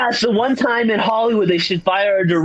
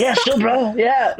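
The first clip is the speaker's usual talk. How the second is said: higher, easygoing yes-man bro; casual bro reply; 5 semitones higher than usual. Retold or imitated. Michael Pena answering the studio, higher breezy bro voice. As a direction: shrug it off like a laid-back actor.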